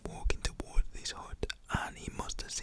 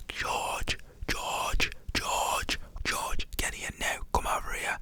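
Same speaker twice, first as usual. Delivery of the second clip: forceful stage-whispered yell; whispered shout; 5 dB louder, slower than usual. Retold or imitated. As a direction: imitate an angry dad calling his son, whispering. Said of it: "he must have shouted to his son".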